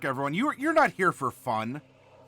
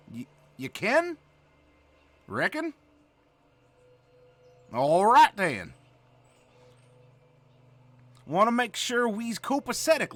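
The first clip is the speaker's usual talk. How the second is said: put-on Southern hick accent; 4 semitones higher than usual. Streamer lecturing the class in an exaggerated Southern accent. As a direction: play a backwoods Southern schoolteacher. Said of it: "With this here accent".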